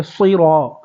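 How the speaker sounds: صراط with a full, heavy ص; emphatic ص in صراط; heavy saad. Shown as a demonstration. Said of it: "صاد کو پر کریں گے،".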